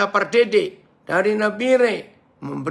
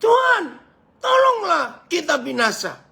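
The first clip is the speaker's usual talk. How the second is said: high, loud desperate cry; panicked shout to be saved; urgent, not gentle; 11 semitones higher, 3 dB louder than usual. Acted. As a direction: shout it out as an urgent plea for help. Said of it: "Pasti ngomongnya nggak halus-halus".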